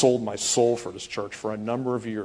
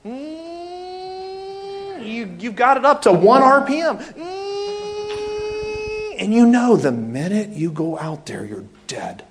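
loud strained yell like a revving bike; preacher roaring like a revved motorcycle; revving engine shout; 14 semitones higher, 7 dB louder, much slower than usual. Acted. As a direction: roar it out over the engine.

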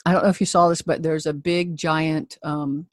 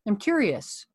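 inviting; 4 semitones higher, 3 dB quieter than usual. Shown as a demonstration. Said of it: "I'll step back and say".

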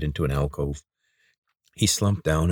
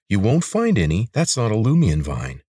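scornful; 4 semitones higher, 4 dB louder than usual. Acted. Lena scornful.

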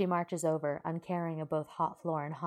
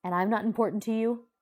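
a loud, higher hurt cry; hurt shout; 6 semitones higher, 8 dB louder than usual. A narrator's reading. Bakugo shouts at Uraraka, hurt. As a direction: throw the question back, wounded.

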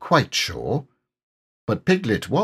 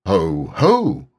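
a less certain ho ho; unsure Heffalump; 7 semitones higher, 3 dB louder than usual. Pretend. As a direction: gloat but falter. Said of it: "surprised and not quite so sure".

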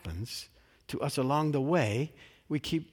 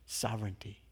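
soft echo; 4 semitones lower, 9 dB quieter than usual. Shown as a demonstration. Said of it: "the words just keep echoing in this space".

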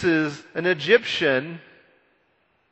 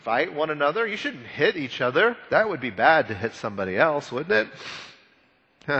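self-righteous. Retold or imitated. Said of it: "Moses sounds self-righteous and pious and holy".

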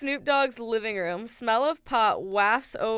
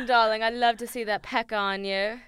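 put-on British accent; 3 dB louder than usual. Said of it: "British people".

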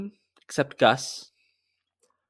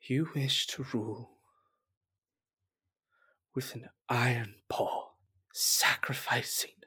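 authoritative; 11 dB quieter than usual. Acted. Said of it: "most authoritative and straightforward voice".

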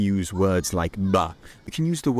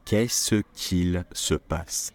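slow careful; much slower than usual. Shown as a demonstration. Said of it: "And we say".

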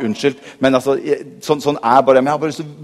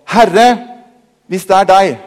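doubtful Peter; 3 semitones higher, 4 dB louder than usual. Acted.

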